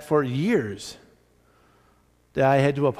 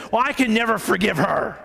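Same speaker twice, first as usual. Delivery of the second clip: mock indignant refusal, pitched up; retold fuming; 4 semitones higher than usual. Pastor imitating the woman refusing forgiveness, fuming and high. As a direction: imitate her fuming, higher voice. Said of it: "she's just getting fuming".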